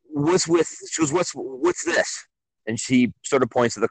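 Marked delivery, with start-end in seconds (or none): 0.1-2.2 mock customer voice.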